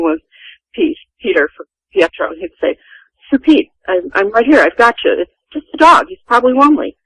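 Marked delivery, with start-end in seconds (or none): 3.3-7.0 retold fatherly reassurance, lifted higher; higher-pitched, coaxing retold comfort; reassuring. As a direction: imitate a son soothing his frightened father. Father comforting his frightened father.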